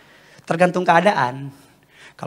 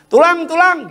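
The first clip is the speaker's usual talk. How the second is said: put-on high, loud child-like begging; pleading little relative; 12 semitones higher, 6 dB louder than usual. Nephew or niece begging uncle for pempek, high pleading call. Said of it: "keponakan saya minta".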